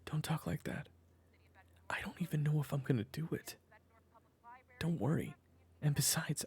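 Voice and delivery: whispered, gentle comfort; hushed reassurance. Acted. Husband soothing his worried wife, in a whisper.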